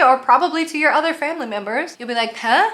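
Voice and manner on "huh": rude huh. Shown as a demonstration. Vlogger showing the rude German way to say what. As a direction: toss it back rudely. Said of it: "in a really rude way".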